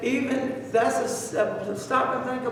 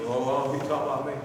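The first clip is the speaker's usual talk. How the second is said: mocking a touchy listener; 7 semitones lower, much faster than usual. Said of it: "Somebody would".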